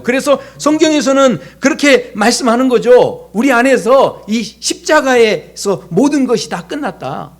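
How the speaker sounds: full-voiced sermon declaration; fervent preaching. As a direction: proclaim the cross to the congregation.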